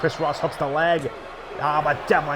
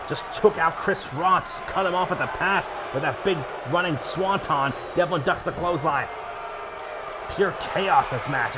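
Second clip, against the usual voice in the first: excited; 2 semitones higher than usual. Real, not acted. Chaos in ring, commentator yelling.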